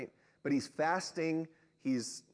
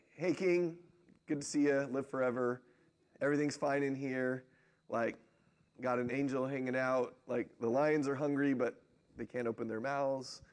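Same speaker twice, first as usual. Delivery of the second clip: casual, unbothered greeting easing into an offhand report; nonchalant. Retold or imitated. Daniel greets the king from the lions' den, nonchalant. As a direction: toss it off as if nothing's wrong. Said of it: "Daniel's pretty nonchalant".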